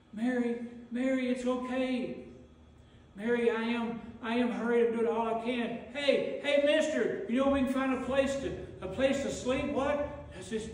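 desperate husband begging for a room; pleading Joseph. Acted.

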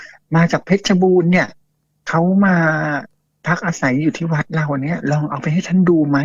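a hint of a keen villager spelling it out; eager villager. Villager suggests taking the jar to the monk, eager. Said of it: "อารมณ์ประมาณเนี้ย".

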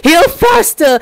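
re-enacted scream, held back; retold scream. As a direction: imitate your own urgent yell. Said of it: "I was screaming at Bones like".

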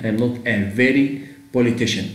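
slow, deliberate English phrase; slow teaching read. Shown as a demonstration. Teacher to students, showing why the option fails. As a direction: drag out very with a rise. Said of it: "حتى very هنا مش توصف اسم".

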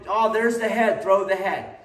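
mock eager student; eager grabbing. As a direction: push for the throw like a greedy student. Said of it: "stop trying to".

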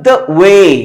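light, short "the", drawn-out "way"; barely touch "the", lean on "way"; stress on WAY. Shown as a demonstration. Teacher showing students an iamb, "the" light, "way" stressed. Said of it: "the एकदम हल्के से बोला".

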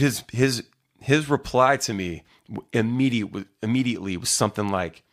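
usual speaking voice

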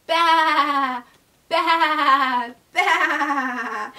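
drawn-out, wavering baas; sheep bleat. Shown as a demonstration. Teacher shows children what sound a sheep makes, sheep bleat. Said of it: "what sound a sheep makes".

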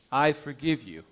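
tender reassurance to a dying man; gentle forgiveness. Acted. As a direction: say "I forgive you" gently, stressing "I". Pastor embraces dying man.

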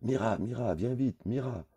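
put-on a boy howling to fetch his mother; shrill call for Mira; yelling for help. A narrator's reading. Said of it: "pousse un hurlement".

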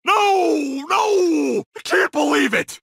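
high, drawn-out cry of despair; anguished wail. Acted. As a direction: wail as the bad news hits. Learns his enemy has escaped.

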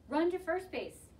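high, slow, stretched-out urging; yelling. A narrator's reading. Boys directing the runner, slow high yell. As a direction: call it out slowly and high. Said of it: "yelled the boys".

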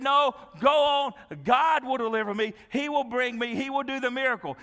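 loud, high, insistent declaration; confident refusal. Acted. Stranded believer turning away his rescuers, loud and confident.

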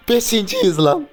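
very high, loud, slow stretched shout; drawn-out furious yell; outraged yell. Real, not acted. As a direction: wail it out in disbelief.

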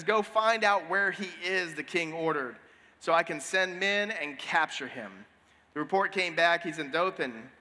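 steady reading from the Bible; scripture reading. Acted. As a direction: read the passage to the congregation. Reads scripture passage.

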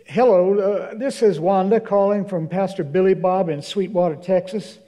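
imitating a Texas church lady on the phone; hint of a Texas accent. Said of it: "a lady with a strong Texas accent".

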